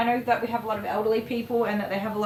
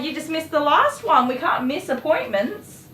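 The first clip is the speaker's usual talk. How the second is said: retold protest; 8 semitones higher, 8 dB louder than usual. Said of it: "I'm like".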